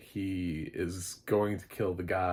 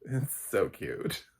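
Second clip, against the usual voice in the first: gushing; 4 semitones higher, much slower than usual. Pretend. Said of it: "It doesn't say".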